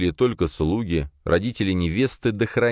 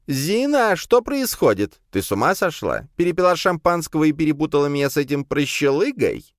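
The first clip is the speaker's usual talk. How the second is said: put-on drunk count; 11 semitones higher than usual. A narrator's reading. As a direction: demand answers, drunk and outraged. (возмущённый пьяный граф)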